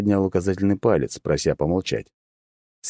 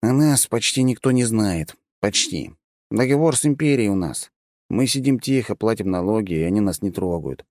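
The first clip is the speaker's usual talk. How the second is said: halfling; 4 semitones higher than usual. Acted. Halfling explains. (высокий неторопливый голос полурослика)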